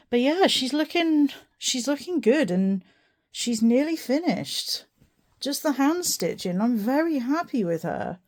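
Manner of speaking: gushing over her finished work; excited. Real, not acted. Proud of the finished dress.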